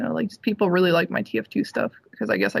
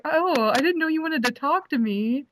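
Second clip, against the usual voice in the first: lightly voiced higher-pitched teasing man; Voltaire quote; 7 semitones higher than usual. Cosplayer quoting the musician who noticed her, lightly voiced. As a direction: lift the pitch slightly playfully for his line. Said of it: "He's like".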